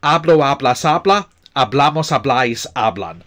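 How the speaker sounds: hablo, hablas, habla, hablamos, habláis, hablan recited in a steady drill rhythm; conjugation drill. Shown as a demonstration. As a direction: run through the endings like a model for learners. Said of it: "you should be able to go".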